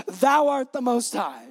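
hammed-up King James reverence; King James language. Mother flatters Jesus before asking a favor, in King James style. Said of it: "she starts using King James language".

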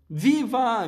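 viva alto e agudo; grito de alegria. A narrator's reading. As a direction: comemore gritando. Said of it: "gritou o senhor Wonka". (Wonka comemorando aos gritos)

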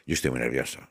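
low, soft admission of nerves; soft nervous confession. Retold or imitated. Host telling the audience he is nervous, softly. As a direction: confess your nerves quietly. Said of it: "les digo".

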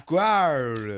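imitated Japanese attempt at squirrel; Japanese-accented mispronunciation; mock Japanese accent. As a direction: repeat it in a put-on Japanese accent. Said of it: "you say that to a Japanese man".

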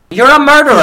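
high, loud hammed-up witch cry; mock witch accusation. Quoting the witch.

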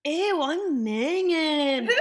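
squealing ew through a laugh; laughing disgust. Real, not acted. Friend grossed out at her own body hair, laughing. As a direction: groan it out slow, laughing at yourself.

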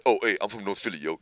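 imitating friend Reg. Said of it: "That's how he talks".

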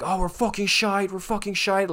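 high, loud East London fan moan; mock East London fan. Fan mocking his own team's play, hammed-up East London accent. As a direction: imitate a fed-up local fan bellowing. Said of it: "funny to hear people's reactions".

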